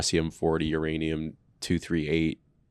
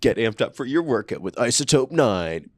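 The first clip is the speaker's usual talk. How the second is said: energy drink ad; 4 semitones higher than usual. Pretend. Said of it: "sound like a fucking Hot Wheels commercial".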